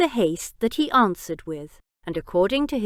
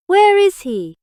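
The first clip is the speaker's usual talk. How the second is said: higher and louder, each word hammered; furious repeat; 10 semitones higher, 9 dB louder than usual. A narrator's reading. Jack repeats his question to the wounded Biggs, enraged.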